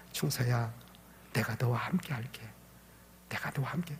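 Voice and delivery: soft, low reassurance; God's gentle inner voice. Retold or imitated. God answers the crying boy in his heart, soft and gentle. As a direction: speak very softly, as an inner voice. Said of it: "하나님이 뭐 음성이 막".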